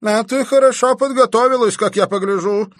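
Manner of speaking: put-on old man sneering at the girl's preparation; spiteful, through teeth. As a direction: grind it out through the teeth with malice. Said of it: "злобно процедил сквозь зубы".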